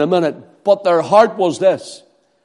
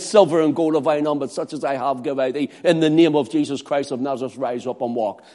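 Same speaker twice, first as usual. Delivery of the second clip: softer, fast and calm; quiet command; 4 semitones lower, 6 dB quieter, faster than usual. Acted. Peter speaking to the lame man, fast and soft. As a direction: say it gently but sure. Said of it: "And Peter said".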